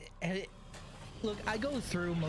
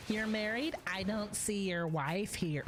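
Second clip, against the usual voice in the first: mocking a pickup line. Mimicking a woman's flirt line, mocking. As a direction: drag out the cliche line with scorn. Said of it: "Who honestly uses the".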